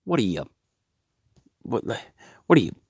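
slow stunned start rising to a high, loud yell; outraged disbelief. Acted. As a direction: build from disbelief to a shrieking outburst. Abraham refuses, outraged.

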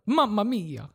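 put-on Italian accent. Asked for an Italian gentleman, half-hearted Italian accent. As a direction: try a stock Italian accent. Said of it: "just an Italian gentleman".

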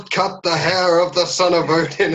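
booming, haughty royal decree; commanding Thor. Retold or imitated. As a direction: proclaim it like an offended god. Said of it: "quoting Thor scene".

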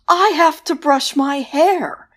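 high, drawn-out ghostly wail; slow, high, keening whisper-wail; banshee wail. A narrator's reading. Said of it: "the banshee wailed".

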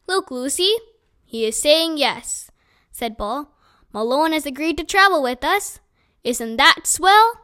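lightly voiced friendly hobo; a hint of a kindly old tramp talking to his dog; Bull the hobo.

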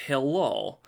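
vaguely Russian-tinged European hello; put-on Eastern European accent; nondescript European accent. Shown as a demonstration. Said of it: "nondescript European accent".

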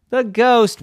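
high, loud surprised mom question; incredulous echo. A narrator's reading. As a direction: repeat it back in high disbelief. Mommy questions the child's answer.

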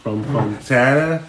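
talking through a mouthful of ice cream; slow words round a spoonful of ice cream; mouth full. Real, not acted. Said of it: "I had ice cream in my mouth".

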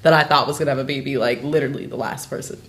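talking through hiccups; hiccuping. Real, not acted. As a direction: hiccups breaking the words. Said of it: "Sorry, I have hiccups".

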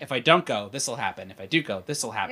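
low, quiet thinking aloud; pondering aloud. Retold or imitated. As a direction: weigh both options under your breath. Acting out Hades weighing two futures.

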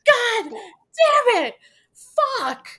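slow, high, drawn-out mock cursing; hammed-up furious swearing, each word stretched; pissed-off Reggie. Imitating a player punching lockers, mock furious. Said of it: "He is pissed".

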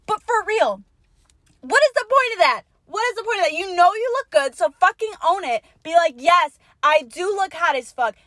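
high, loud, insistent lecture; fired-up rant. Real, not acted. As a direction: push them to own it.

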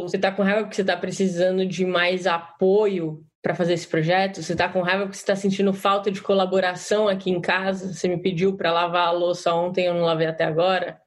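low, calm guessing questions; non-violent, empathic. Shown as a demonstration. Participant offers empathic guesses to angry partner at home, low and calm. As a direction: gently check what they need, pitched low. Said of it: "de uma forma não violenta".

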